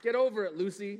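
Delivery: harsh mock dad. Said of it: "Did I say".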